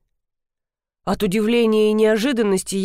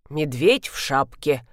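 wry repeat; 6 semitones lower, slower than usual. A narrator's reading. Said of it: "повторила Алевтина Тимофеевна".

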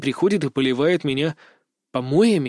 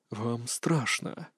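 much softer, very slow; very soft, slow lure; 4 semitones lower, 11 dB quieter, much slower than usual. A narrator's reading. Captive girl soothing him, very soft and slow. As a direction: breathe it out gently. Girl's soft luring line.

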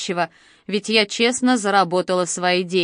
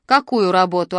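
ordinary delivery

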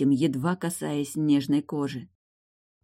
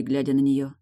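usual speaking voice

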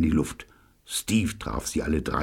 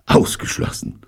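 gasped out. Acted. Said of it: "keuchte Steve".

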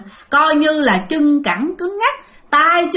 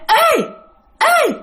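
high-pitched, piercing "hey" cries; ghostly girl's call; 13 semitones higher than usual. Retold or imitated. Unseen girl calls from the dark slaughterhouse, high ghostly cry. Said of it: "cái tiếng của con gái".

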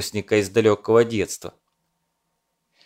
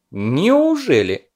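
surprised; 4 semitones higher, 3 dB louder, much slower than usual. A narrator's reading. Taken-aback commander's skeptical word.

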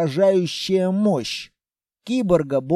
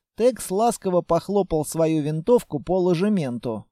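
ordinary talk, nothing marked

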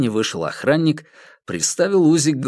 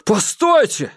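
high, loud cry to wait; shouting; 10 semitones higher, 4 dB louder, slower than usual. A narrator's reading. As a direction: call out in alarm. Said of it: "закричал Хэрот".

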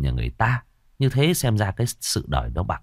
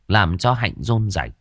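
ordinary delivery

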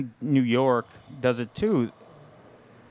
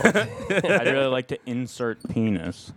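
mock sweet talk. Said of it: "that's the way the sweet talk girl".

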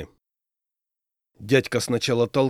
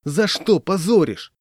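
put-on slow, high tearful drunk; drawn-out plaintive complaint; mock sob; 7 semitones higher, 4 dB louder, slower than usual. A narrator's reading. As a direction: wail it slowly, wounded and tipsy. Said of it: "всхлипнул дядька".

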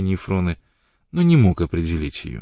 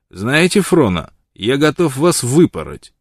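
louder, slow desperate blurt; desperate outburst; 5 semitones higher, 6 dB louder, slower than usual. A narrator's reading. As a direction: let it burst out in despair. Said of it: "выпалил в совершенном отчаянии".

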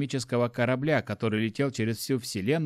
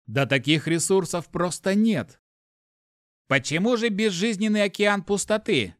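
raised, louder detached machine voice; icy ship computer; 7 semitones higher, 3 dB louder than usual. A narrator's reading. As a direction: answer like an unfeeling AI.

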